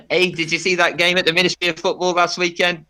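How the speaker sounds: a light, half-hearted Liverpudlian football fan; a hint of a Liverpool accent. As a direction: chat about the game in a mild Scouse accent. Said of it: "That's Liverpudlian accent there".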